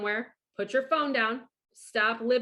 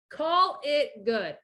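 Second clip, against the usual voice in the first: "Call it good" drawn out slowly, stress on "call"; slow emphatic repeat; much slower than usual. Shown as a demonstration. Repeating advice to a listener, slow and deliberate.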